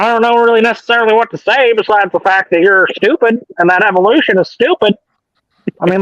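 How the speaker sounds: a lightly voiced preacher mocking evolution, pitch lifted; Kent Hovind impression. Lightly voiced creationist preacher mocking evolution. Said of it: "Steven and my Ken Hovind impression".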